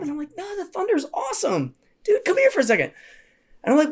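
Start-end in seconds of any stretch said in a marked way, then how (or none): 0.4-2.9 put-on high-pitched pep talk to a kid; upbeat reassurance. Counselor cheering up scared girl, high upbeat coaxing. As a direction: coax the child in a raised voice.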